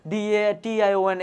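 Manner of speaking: slow spelling, each letter apart; letter by letter, slowly. Shown as a demonstration. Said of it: "চোখ বন্ধ করে তুমি পড়লা".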